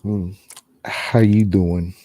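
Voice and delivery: low, slow flirty greeting; Joey-style pickup line. Pretend. Ghost hunter flirting with the spirits, low and slow. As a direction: lay on the charm, low and slow. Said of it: "he's getting a sexy voice".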